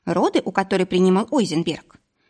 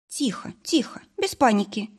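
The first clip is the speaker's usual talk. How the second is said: soothing; 4 semitones higher, 3 dB quieter than usual. Acted. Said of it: "успокоила я его".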